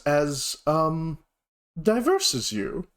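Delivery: politely puzzled compliment; polite dragonborn mentor. Acted. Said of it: "and he goes".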